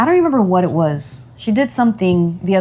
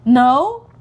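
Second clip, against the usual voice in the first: put-on higher-pitched child's answer; imitated small daughter; 6 semitones higher, 3 dB louder than usual. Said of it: "She's like".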